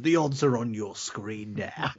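slow, lightly put-on gravelly ad read; a hint of Ray Winston's betting advert; betting ad voiceover. Imagining the betting advert during the film, slow ad read. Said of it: "all I was thinking was".

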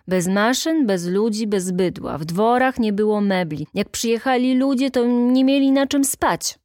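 orate proudly to the meeting like a functionary; pompous speech. Acted. Chairman praising his union at the meeting, pompous oratory. Stasinek continues his defence.

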